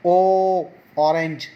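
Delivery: ओ drawn out long and slow as in ऑरेंज; slow vowel demo. Shown as a demonstration. Teacher stretching ओ in ऑरेंज slowly for pupils. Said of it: "ए का sound है".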